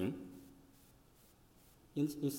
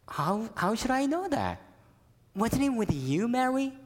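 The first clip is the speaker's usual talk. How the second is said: higher, flustered husband pushing back; defensive Joseph; 8 semitones higher than usual. Acted. Joseph answers his wife, flustered and defensive. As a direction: toss the blame back at her.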